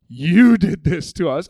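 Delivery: blaming accusation. Retold or imitated. The people blaming Moses.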